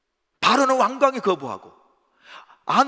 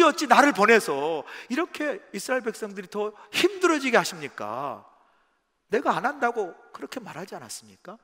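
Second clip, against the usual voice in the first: aggrieved protest. Retold or imitated. Moses arguing with God, upset and protesting. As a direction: argue your case, wounded and insistent. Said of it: "속상한 마음으로 이렇게 하나님께 따지듯".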